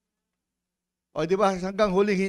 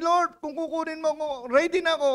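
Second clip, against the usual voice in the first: mock confident; 10 semitones higher than usual. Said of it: "Anytime, sabi".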